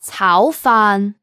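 炒飯 said quickly at natural speed; fast natural speed. Shown as a demonstration. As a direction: run 炒飯 together quickly.

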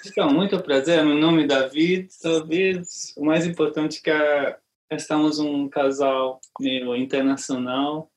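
Portuguese with a Hungarian accent; non-native Portuguese, Hungarian accent. Real, not acted. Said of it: "Desculpa, meu português não é tão legal".

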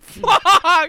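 sudden yell, pitch jumps up; shouted curse. Retold or imitated. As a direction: blurt it out loud. Kicked gun, retold exclamation.

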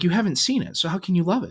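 acted-out parental disbelief, pitched high; exasperated dad. Dad argues with son who hasn't seen it, exasperated. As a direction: challenge the kid in a high, incredulous voice. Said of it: "And I was like".

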